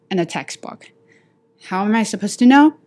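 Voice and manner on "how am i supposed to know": frustrated. Acted. Repeated frustrated question.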